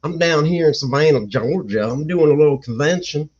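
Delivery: a hint of a Southern US accent. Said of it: "start talking like this".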